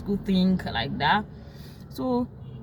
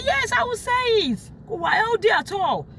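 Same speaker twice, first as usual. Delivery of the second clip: higher, voice on the edge of crying; near tears, retold; 12 semitones higher than usual. Arguing with the violent husband, close to tears. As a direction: push back while almost crying.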